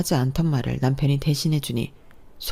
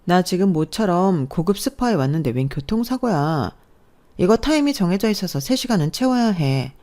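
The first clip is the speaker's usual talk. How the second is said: higher, self-satisfied boast; smug bragging; 4 semitones higher than usual. Acted. Sister-in-law refusing to come from the spa, smug. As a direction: show off the pricey spa.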